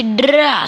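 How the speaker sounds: rolled "drra" attack noise; bruitage d'attaque. Pretend. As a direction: trill a long R like a charge. Imite le bruit de la bûche. (bruitage roulé, « drra »)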